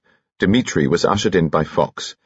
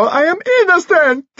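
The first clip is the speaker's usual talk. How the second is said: high, frantic shriek of protest; scream; 4 dB louder than usual. A narrator's reading. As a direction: scream it out at speaking pace, desperately. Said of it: "Dimitri screamed".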